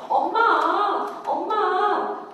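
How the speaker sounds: long drawn-out calls for mom; clingy child. Acted. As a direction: imitate a child pestering mom, stretching the words. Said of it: "이 딸은 자꾸 엄마를 쫓아다녀". (엄마를 조르는 아이처럼 길게 늘여 부르기)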